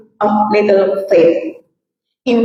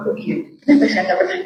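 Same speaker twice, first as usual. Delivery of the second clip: whispered realization; 5 dB quieter than usual. Retold or imitated. Disciples realizing.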